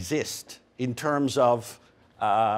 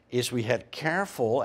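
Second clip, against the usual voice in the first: careful singled out as the key word; stress on careful. Real, not acted. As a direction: lean on the word careful, said deliberately. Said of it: "I want to emphasize the word careful".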